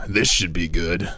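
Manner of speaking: first try, pitched low; low-pitched game voice. Acted. Streamer trying a vulture line, too low at first. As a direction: deliver the unit line low and easy. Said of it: "Wait, he's higher pitched".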